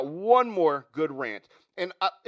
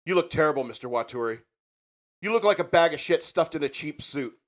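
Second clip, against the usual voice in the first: mild rant. Acted. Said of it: "And the rant begins".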